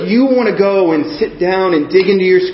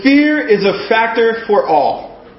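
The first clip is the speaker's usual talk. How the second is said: "Fear is a Factor for All" said slowly and higher; slow announced title; 4 semitones higher, slower than usual. Shown as a demonstration. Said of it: "title of my first point".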